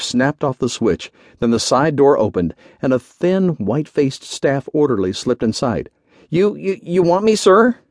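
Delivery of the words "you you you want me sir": high, stammering timid question; fearful gulp. A narrator's reading. Orderly slips into the general's office, gulping fearfully. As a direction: stammer nervously, climbing to a squeak. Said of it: "he gulped fearfully".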